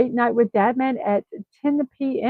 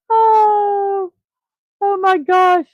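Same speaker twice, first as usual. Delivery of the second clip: laughing; 9 semitones higher, 5 dB louder, much slower than usual. Real, not acted. Laughing at funny meme.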